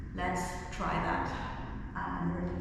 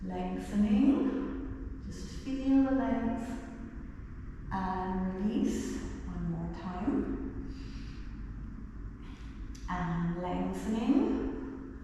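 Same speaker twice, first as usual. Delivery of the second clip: slow yoga cue; slower than usual. Acted. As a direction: stretch each word like the pose. Slow drawn-out yoga cues.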